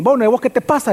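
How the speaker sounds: a touch of scorn in "Bueno"; mild contempt. Acted. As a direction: brush him off like a thief who feels in the right. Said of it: "le hablan despectivamente a Micaías".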